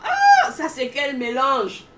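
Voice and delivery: loud, slow exclaimed question; retold exclamation, loud then easing off; mock shout. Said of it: "les gens criaient toujours sur moi".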